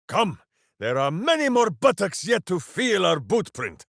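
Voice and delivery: loud heroic battle cry; rallying shout. Acted. Ranger rallying allies into battle, loud and heroic. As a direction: rouse the party to charge.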